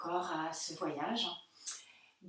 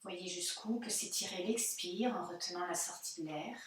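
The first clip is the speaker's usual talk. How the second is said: calm yoga-teacher guidance with long pauses; unhurried meditation voice, phrase by phrase; guided meditation. Real, not acted. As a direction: guide them gently into body and breath, leaving silences. Leads a guided breathing meditation.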